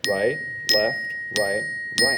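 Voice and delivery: steady counted calls in time; teacher counting along with students; calling the sticking. Shown as a demonstration. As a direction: call each stroke on the beat. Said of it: "Here I go".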